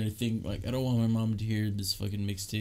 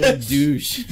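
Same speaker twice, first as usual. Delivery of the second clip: high, loud words through real laughter; real helpless laughter; laughing hard; 11 dB louder, slower than usual. Real, not acted. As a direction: crack up while saying it. Joking about villain amid laughter.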